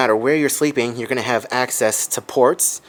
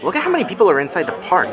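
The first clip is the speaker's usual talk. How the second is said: amazed; 6 semitones higher, faster than usual. Real, not acted. Vlogger amazed at crowded park.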